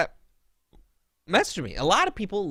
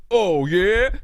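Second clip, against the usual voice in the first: mock smug retort; 4 semitones higher, 6 dB louder than usual. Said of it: "He g-, goes".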